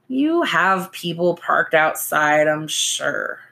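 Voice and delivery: slow sarcastic drawl; a lazy drawl, unimpressed. Acted. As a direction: drag the words out, dryly. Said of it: "she drawled".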